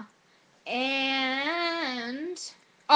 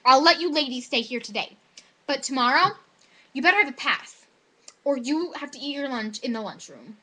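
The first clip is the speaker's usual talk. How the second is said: stern officer's warning; 3 dB louder than usual. Retold or imitated. Officer warns students, retold.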